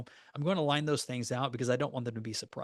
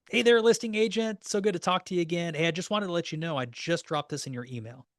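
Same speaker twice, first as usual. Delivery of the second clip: bright, upbeat hello to a colleague, higher and louder at the start; cheery phone greeting; 4 semitones higher, 4 dB louder than usual. Shown as a demonstration. Agent greeting the listing agent on the phone, upbeat. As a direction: sell it like a friendly call.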